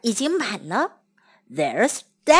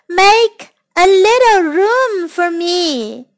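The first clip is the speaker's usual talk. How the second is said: calling out; 4 semitones higher than usual. Acted. Voice asking from the water.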